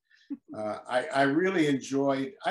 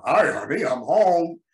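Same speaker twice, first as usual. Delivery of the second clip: louder, bright sitcom entrance; Earl's loud greeting; 5 semitones higher, 10 dB louder, slower than usual. Shown as a demonstration. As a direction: call it out as the dad walking in. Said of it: "I had to reply".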